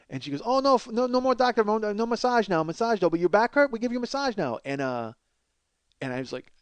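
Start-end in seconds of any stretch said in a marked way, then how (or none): 0.4-4.6 lightly imitated pushy masseuse; mock insistent saleswoman; parlor woman's hard sell. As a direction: push the massage in a slightly raised voice.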